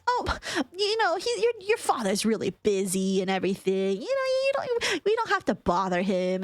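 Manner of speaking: mock flustered stepmom, pitch jumping high in spots. Stepmom dodging the request to put dad on, mock flustered. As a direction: stammer out excuses in a flustered rush. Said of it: "got flustered at that and was like".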